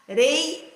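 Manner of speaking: "areia" split as a, REI, a; detached syllables of "areia", strong on REI. Shown as a demonstration. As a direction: say "areia" in separate beats with pauses. Teacher separates syllables.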